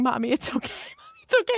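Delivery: high little-kid reassurance, retold; imitating consoling child. Child comforting weeping mom, imitated high child voice. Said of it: "And she's going".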